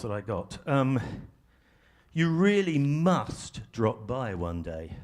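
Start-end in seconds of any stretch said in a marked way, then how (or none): 2.1-5.0 insincere invitation. Shown as a demonstration. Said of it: "Does that really mean what it says?".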